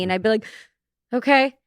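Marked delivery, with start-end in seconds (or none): 1.1-1.5 forceful okay. Retold or imitated. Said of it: "Like, forceful, like, very forceful".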